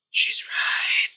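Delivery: hushed whisper of a dawning realization; inner thought whispered. Retold or imitated. Husband realizing mid-fight he's wrong, whispered. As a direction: breathe it out as a private admission. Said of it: "slowly thinking".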